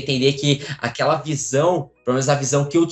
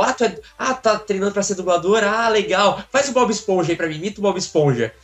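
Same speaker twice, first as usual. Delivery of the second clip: higher-pitched, enthusiastic fan request; eager fan; 6 semitones higher than usual. Retold or imitated. Fan pestering a dubbing trainee for a SpongeBob voice, eager. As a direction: imitate a keen stranger asking a favor. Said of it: "uma pessoa que chegou em mim, cara, e falou".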